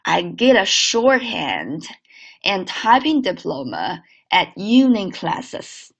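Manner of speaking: slow linked read of I get a shorthand; teacher's slow model sentence. Shown as a demonstration. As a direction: read slowly, linking the words. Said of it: "整个句子连起来".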